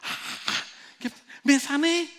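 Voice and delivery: high, loud cry of a healed man; healed man yelling with joy; retold shout. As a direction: shout it out in amazement. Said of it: "la persona empezó a gritar".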